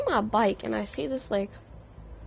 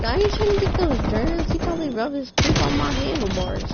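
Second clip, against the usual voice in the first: put-on grossed-out kid; 5 semitones higher than usual. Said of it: "I was like".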